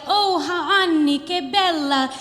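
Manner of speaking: hammed-up Luca crooning pop lyrics at her; Luca's serenade. Luca crooning song lyrics at the American girl, mock sing-song. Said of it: "He'd say, like".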